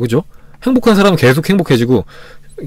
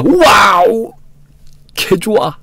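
mock delighted; 6 semitones higher, much slower than usual. To viewers, the right reaction, a bright high wow. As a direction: cheer over a scraped knee. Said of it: "이러면은".

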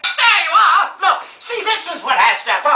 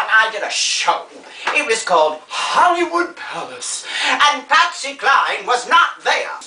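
theatrical, meandering grande dame delivery; theatrical old star. Acted. Old star reminiscing to a young helper, grandly theatrical. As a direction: play a rambling show-business grande dame.

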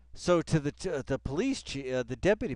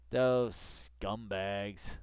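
even more drawn-out sneer on "Those scumbags"; slower contempt; 2 semitones lower, much slower than usual. Real, not acted. Streamer repeating the insult, drawn out. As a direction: stretch "Those" long and scornful.

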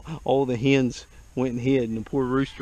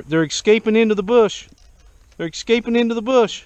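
excited; 9 semitones higher, 9 dB louder than usual. Real, not acted. Chickens escaping, excited commentary.

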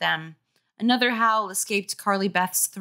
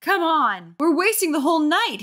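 put-on higher, whiny kid complaint; complaining boy; 9 semitones higher, 3 dB louder than usual. A narrator's reading. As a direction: nag mom to leave. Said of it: "his brother complained".

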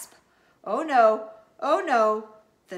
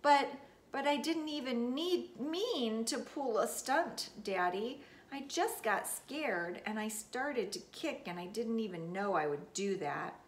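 teary pleading; 3 semitones higher than usual. Acted. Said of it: "my eyes got tears in them".

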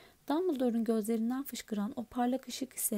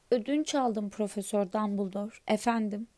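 louder, booming giant; a big gentle giant answering politely; lightly louder giant voice; Hagrid's voice; 3 dB louder than usual. Acted.

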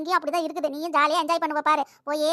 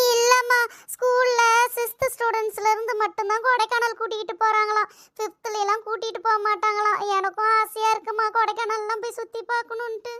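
crying; 5 semitones higher than usual. Acted. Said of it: "இதுக்கு தான் அழுதுகிட்டு இருக்கியா".

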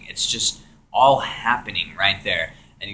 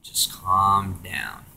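much softer, slow calming; soothing voice; 3 dB quieter, slower than usual. Retold or imitated. Presence telling tripper to calm down, soft and slow. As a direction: hush a frightened child. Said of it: "the voice is just telling me".

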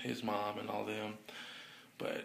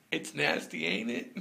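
teasing; 4 semitones lower than usual. Retold or imitated. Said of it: "I said".

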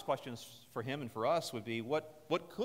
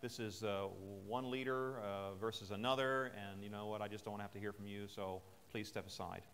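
dismissive brush-off; 5 semitones lower than usual. Retold or imitated. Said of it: "He could have said something like".

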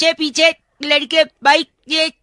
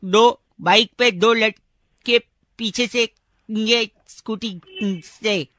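bad connection; 2 semitones lower, slower than usual. Real, not acted. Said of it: "भैया आपकी आवाज cut रही है भैया".

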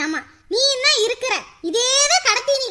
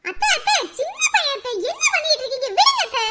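pleading protest; 6 semitones higher than usual. Acted. Stopping aunt beating child.

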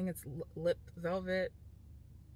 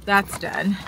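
raised voice over the wind; shouting over wind; 2 semitones higher, 11 dB louder than usual. Real, not acted. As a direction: project loudly over the wind. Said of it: "I don't know if you can hear me over this wind".

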